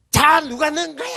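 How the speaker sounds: high mock angry shout at the players; yelling at the TV. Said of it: "하면서 화를 내더라고요". (축구 보며 화내는 흉내)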